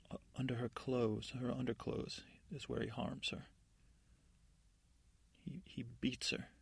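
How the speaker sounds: slow, understated revelation; grave disclosure. Acted. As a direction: let the dark secret out slowly. Godmother reveals a dark secret.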